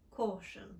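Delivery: "law", "talk", "caution" with rounded, narrow British aw. Shown as a demonstration. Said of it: "So law, talk, and caution become law".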